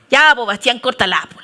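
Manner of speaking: brusque, punchy scolding with a joking edge; blunt telling-off. Shown as a demonstration. Pastor shows how she talks to Bastián, blunt telling-off. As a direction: tell him off without cushioning. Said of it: "cómo hablarle a Bastián".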